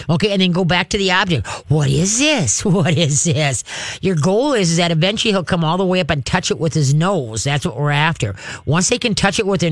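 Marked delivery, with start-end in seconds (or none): 1.7-3.6 chuckling through the question; amused, playful wondering; laughing curious. Shown as a demonstration. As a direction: giggle with delight at the object. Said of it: "Laugh with your voice".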